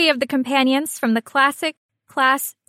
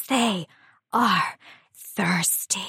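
suggestive drawl; 4 semitones lower, 5 dB quieter, slower than usual. Acted. Punchline drawn out.

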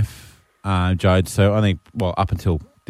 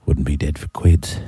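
relaxed contented sigh; 8 semitones lower than usual. Retold or imitated. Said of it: "recline back and go".

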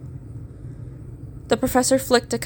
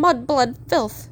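drawn-out, slow shrieked insult, held back; restrained shrill abuse; mock shrill scream; 3 semitones higher, slower than usual. A narrator's reading. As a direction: screech it slowly without full volume. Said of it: "continued to scream in shrill tones".

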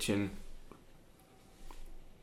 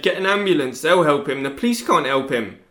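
louder, pleading for an ambulance; retold plea; 7 dB louder than usual. Son retells mum begging for an ambulance, raised voice. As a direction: push it like a desperate mother. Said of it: "But she said".

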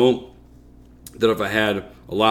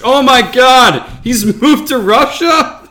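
high, slow shocked exclamation; surprised; 13 semitones higher, 6 dB louder than usual. Acted. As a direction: gasp it out in mock disbelief. Shocked reaction to beer news.

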